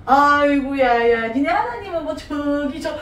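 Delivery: mock-pitying sneer; taunting Goliath. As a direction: belittle them with a theatrical sigh. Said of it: "막 이렇게 놀리는 거야". (한심하다는 듯 놀리는 말투)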